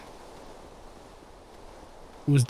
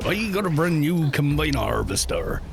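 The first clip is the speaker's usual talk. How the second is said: put-on West Country accent. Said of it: "sounds slightly Cornwall-ish-esque".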